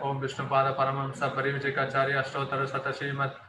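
recited like a temple invocation; ceremonial invocation. Retold or imitated. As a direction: intone the long title formally. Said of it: "அப்படின்ட்டு வந்து சொல்வதை". (சடங்கு முறையில் ஓதுதல்)

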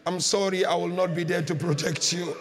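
low, subdued last words; dying apology. Acted. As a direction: apologise as if strength is ebbing. Dying man's apology to his master.

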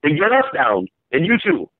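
mock him, get us down; lightly voiced jeering criminal. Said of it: "he's mocking him".

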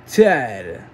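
measured introduction with pauses before the name; ring announcer. Pretend. Introduces next wrestler as announcer.

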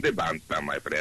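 put-on low accented echo of the catchphrase; deep bandstand echo. Guest echoing his own bandstand intro, deep voice. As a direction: drop into a very low announcer voice.

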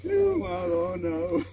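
loud, thrilled shouting with a laugh; explosive italian cursing. Real, not acted. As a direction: shout in disbelief at the catch. Cheering the catch, laughing.

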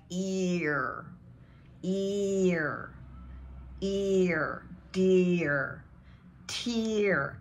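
stretched EE closing on a curled R; hard American R. Shown as a demonstration. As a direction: model ear, dear, tear slowly with a long vowel and hard R. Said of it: "bring in that hard R".

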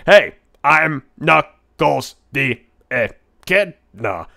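slow, deliberate mock Knuckles introduction; lightly voiced Knuckles, spelled out slowly; Knuckles intro voice. Introducing himself as Knuckles to chat, slow and deliberate. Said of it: "this is me talking".

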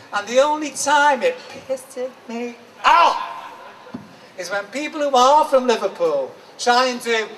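spoken-word poem, measured phrases with pauses; rhythmic spoken-word delivery; poem recital. Acted. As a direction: recite it like performance poetry, line by line. Performs a poem.

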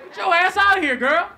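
high, loud shout at her; outraged yell. Retold or imitated. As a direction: throw her out, yelling in disbelief.

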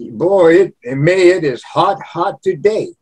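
emphatic light Cajun accent. Shown as a demonstration. Showing Cajun sentences that open with mais, Cajun accent. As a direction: complain like a Cajun local. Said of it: "They say".

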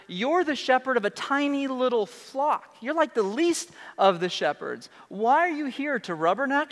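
put-on high, sneering older brother; mocking big brother. Eliab mocking his kid brother, high sneer. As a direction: scoff down at the little runt. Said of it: "he starts to mock David".

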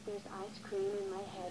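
tearful whimper, slightly hushed; upset doll crying over her hair; crying over ice cream. Acted. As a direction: whine it out near tears, softly. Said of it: "why are you crying".

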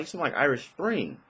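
gently playing the girlfriend's claim; girlfriend insisting. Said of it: "she's like".

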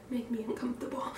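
loud, nervous burst of laughter; giddy, nervous laughing out loud. Real, not acted. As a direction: laugh it off before the plunge. Nervous laugh before haircut.

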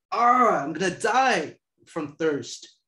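a loud ah, then a slow, dramatic complaint; milk the thirst like a soap opera; hammed-up thirst. The girl in the skit whining about thirst, hammed up.

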